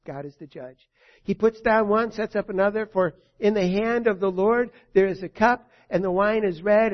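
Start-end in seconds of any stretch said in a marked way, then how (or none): 1.2-6.9 raised preaching voice; sermon at full voice; preaching loud. Real, not acted. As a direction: proclaim God's judgment with force. Preaching judgment.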